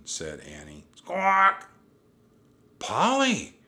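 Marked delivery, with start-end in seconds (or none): 0.9-1.7 very high, loud bird screech; piercing imitation of a parrot's cry; parrot squawk. A narrator's reading. Parrot's cry voiced in the story. 2.8-3.6 very high, loud call of the name; girl's high-pitched, overjoyed shout; excited cry. A narrator's reading. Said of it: "Annie cried".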